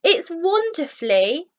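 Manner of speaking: high, loud cry of wonder; overjoyed exclamation. A narrator's reading. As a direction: shout it in delighted amazement. Rhino sees his reflection.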